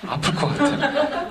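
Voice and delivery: put-on high, slow childlike voice through a laugh; mock childish reply. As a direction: play the unmoved kid answering with a giggle. Child answering teacher. (웃음 섞인 높고 느린 아이 목소리)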